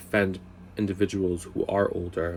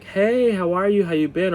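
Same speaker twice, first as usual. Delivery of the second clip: chirpy store clerk; 10 semitones higher, 4 dB louder than usual. Retold or imitated. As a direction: mimic an overly eager clerk saying hi. Imitating the store guy's greetings.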